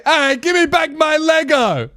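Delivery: high-pitched mock protest; mock indignant shout. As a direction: cry out in play outrage. Acts out victim demanding Lego.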